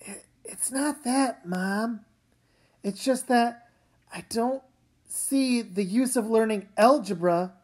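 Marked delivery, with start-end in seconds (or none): 0.1-6.1 choked up. Acted. Upset daughter talks to mom.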